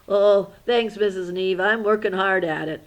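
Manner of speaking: put-on loud, eager kid puppet; puppet Charlie voice. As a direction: play the class puppet thanking his teacher. Teacher voices Charlie Brown puppet.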